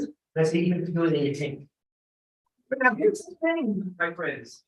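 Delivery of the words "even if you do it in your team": quick line in a put-on New York accent; heavy New York accent. Professor answering a WASP classmate, heavy New York accent. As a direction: retell it in broad New Yorkese, briskly. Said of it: "I put on my heaviest New York accent".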